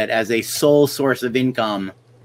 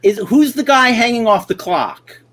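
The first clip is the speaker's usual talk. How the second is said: confused director asking, voiced higher; clueless director; 10 semitones higher, 4 dB louder than usual. Director asking the actor about the silent film star, confused and high. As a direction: fumble for the name. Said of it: "And he went".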